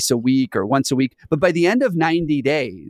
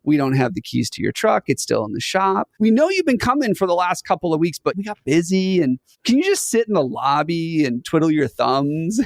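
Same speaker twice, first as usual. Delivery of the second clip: fake cheerful boss; 5 semitones higher than usual. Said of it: "And then Bob's like".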